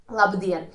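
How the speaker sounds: "labdien" with the weight on DIEN; stress on second syllable. Shown as a demonstration. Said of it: "the stress is on the second syllable".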